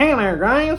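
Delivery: very high voice pushed through the nose. Demonstrating speaking from the nose versus from the gut: nasal voice. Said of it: "Now speak from the nose. It's up here".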